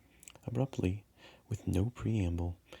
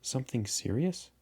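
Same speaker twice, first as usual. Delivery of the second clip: surprised; 5 semitones higher than usual. Acted.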